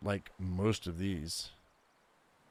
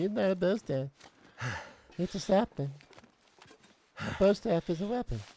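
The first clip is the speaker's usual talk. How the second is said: high, put-on, fussy nitpicking voice. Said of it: "You're like".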